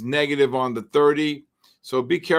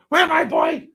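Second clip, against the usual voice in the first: high squeaky voice for the dog; pet talk; 5 dB louder than usual. Real, not acted. Streamer cooing up high to his dog on stream. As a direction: coo up high at your dog.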